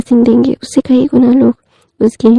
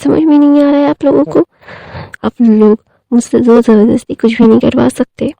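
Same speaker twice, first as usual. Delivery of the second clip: angry refusal. Retold or imitated. Wing refuses the baby shower to Wang ji, mock angry. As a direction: dig in and refuse, hammed-up anger. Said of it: "वो गुस्से में बोलता है".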